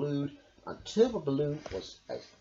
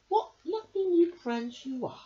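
beaming; 14 semitones higher than usual. Acted. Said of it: "beamed Mole".

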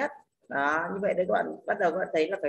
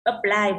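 Apply slow and loud, weight on the second syllable; light first sound, then hit the end of Apply; stress on second syllable; 5 dB louder than usual. Shown as a demonstration. Teacher models Apply for students, stress on second syllable. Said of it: "âm ơ không nhận trọng âm rơi vào âm thứ hai".

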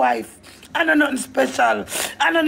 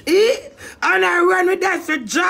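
crying shout; 3 semitones higher than usual. Real, not acted. Upset woman venting, crying.

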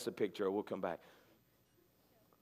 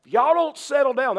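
louder, firm classroom warning; teacher calming a class; 3 semitones higher, 4 dB louder than usual. Retold or imitated. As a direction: call the kids to order like a teacher. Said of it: "I know you've done that".

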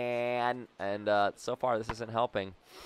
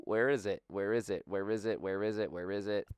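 searching mutter; 2 semitones lower, 5 dB quieter than usual. Real, not acted. Mutters while searching the log.

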